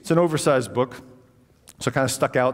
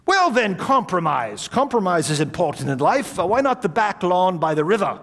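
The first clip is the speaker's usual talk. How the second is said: put-on old gentleman voice; 3 semitones higher than usual. Old host voiced in story.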